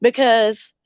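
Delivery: talking around a cigarette; lighting a cigarette while talking; cigarette in mouth. Real, not acted. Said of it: "I haven't even lit my cigarette yet".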